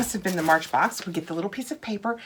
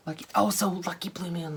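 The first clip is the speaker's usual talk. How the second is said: mock Irish accent; 4 dB quieter than usual. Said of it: "better accent than that".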